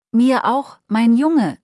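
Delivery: teary, a touch choked up; a moved old man sniffling as he hugs his son; mild tearful sniffle. Acted. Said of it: "schnieft der alte Mann".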